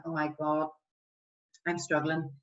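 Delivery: understated friend confiding they feel bad; struggling friend. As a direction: list your flaws quietly, a little downcast. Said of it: "if they're saying".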